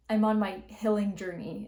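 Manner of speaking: "healing" said as "hilling" with a short i; mock "healing" with a lax vowel; imitating Whitney. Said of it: "instead of healing journey".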